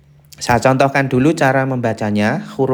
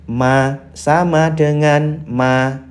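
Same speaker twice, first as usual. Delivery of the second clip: slow, higher syllable reading; demonstrated syllables; 3 semitones higher, much slower than usual. Shown as a demonstration. Teacher shows learners the reading, slow raised syllables. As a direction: read each syllable out slowly. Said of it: "misalkan pakai sama dengan".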